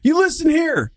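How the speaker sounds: high, laughing mock scold; imitating old man. Old man scolding his wife, high hammed-up voice. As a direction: lay down the law like a stubborn old Texan.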